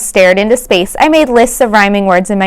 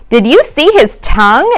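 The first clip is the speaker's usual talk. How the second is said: mild bellow; 4 semitones higher than usual. Acted. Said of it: "A J bellowed".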